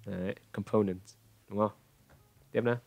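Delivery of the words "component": Component with the weight on the middle syllable; com-PO-nent, stress the "po". Shown as a demonstration. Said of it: "Mới đúng". (Component, nhấn vào âm giữa "po")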